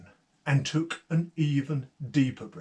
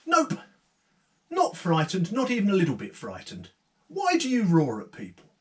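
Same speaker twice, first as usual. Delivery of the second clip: lightly voiced brave young woman, a touch higher; unafraid Eleanor; 3 semitones higher than usual. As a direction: answer the ogre without fear. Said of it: "She said".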